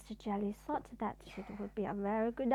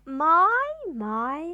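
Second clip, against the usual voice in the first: gentle; 4 semitones higher, 12 dB louder than usual. Acted. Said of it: "said Tramp gently".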